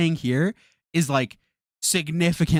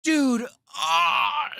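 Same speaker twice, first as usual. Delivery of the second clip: high, strained cry of disbelief; exasperated squeal; 13 semitones higher than usual. Real, not acted. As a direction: squeal out in frustration.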